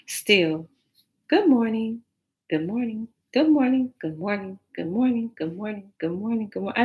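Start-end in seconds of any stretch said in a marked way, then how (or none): 1.3-6.8 mocking singsong. Mocking repeated good mornings.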